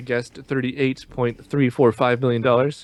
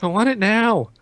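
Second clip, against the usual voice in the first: put-on whiny child voice; 10 semitones higher than usual.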